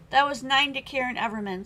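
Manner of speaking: words garbled by ice in mouth; mouth full. Real, not acted. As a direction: talk around a mouthful of ice. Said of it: "I was talking with the ice in my mouth".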